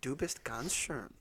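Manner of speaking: slow, deliberate German accent. Shown as a demonstration. Man showing his German to doubting friends, in a German accent. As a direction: lean slowly into the German accent. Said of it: "sounded like you put an accent on".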